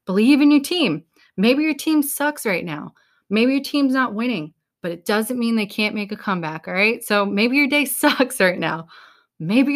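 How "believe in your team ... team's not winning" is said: rally them like a coach; fired up. Real, not acted. Pep talk peak.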